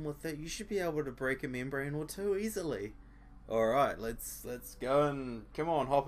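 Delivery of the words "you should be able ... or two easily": dry sarcastic repeat. Retold or imitated. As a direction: quote it back with sarcasm. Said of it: "I don't see the problem".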